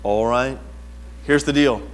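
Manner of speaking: lightly imitated calm counselor; low, unhurried, reassuring advice; Brother Willett. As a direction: talk him down gently, a touch put on. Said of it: "guys that talk like that".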